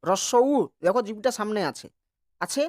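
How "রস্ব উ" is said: রস্ব উ said clearly, the উ held with rounded lips; vowel demo. Shown as a demonstration. Teacher to students, demonstrating the short u vowel. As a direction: sound out রস্ব উ for the class to copy. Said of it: "তারপরে করো উ".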